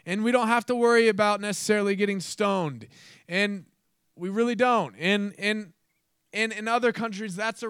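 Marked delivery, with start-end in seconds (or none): none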